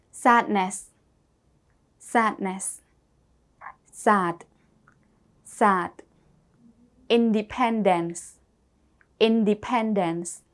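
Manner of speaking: careful model words with pauses for the class; repeat-after-me drill. Shown as a demonstration. Teacher leading students in a repeat-after-me drill. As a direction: say each word clearly and leave room to repeat. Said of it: "I want all of you to repeat after me".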